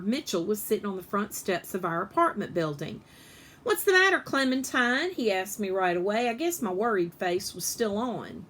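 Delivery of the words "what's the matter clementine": lightly voiced big brother checking in; concerned boy. Mitchell asks with concern.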